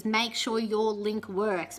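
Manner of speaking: slow, deliberate rule; mock-solemn slow advice; slow recited advice. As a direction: spell out the rule slowly. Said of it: "Everything you read about audition videos says".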